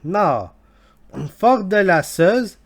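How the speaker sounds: intern put on in a hammed-up Scottish accent; badly faked Scottish brogue; fake Scottish accent. Intern reading disgusting questions to listeners, fake Scottish accent. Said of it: "fake Scottish accent".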